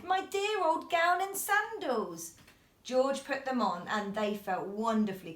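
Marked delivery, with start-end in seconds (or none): 0.0-2.3 high, slow happy exclaim; delighted cry. A narrator's reading. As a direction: savour it joyfully. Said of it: "he yelled".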